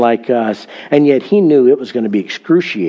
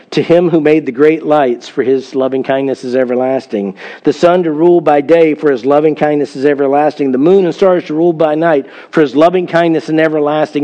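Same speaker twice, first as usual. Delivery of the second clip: measured, slightly raised reading of the psalm refrain; scripture reading; 3 semitones higher than usual. Acted. Pastor reading the psalm to the congregation, lightly lifted. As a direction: read each line like a verse to the church.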